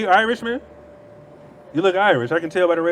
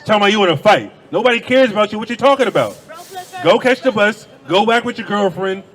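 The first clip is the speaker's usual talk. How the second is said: louder and higher, a heated telling-off; angry yelling; 5 semitones higher, 3 dB louder than usual. Real, not acted. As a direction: shout her down, furious and dismissive. Yelling at the woman who interrupted.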